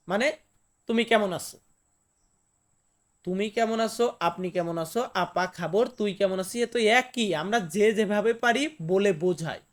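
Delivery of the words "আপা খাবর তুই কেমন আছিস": ordinary delivery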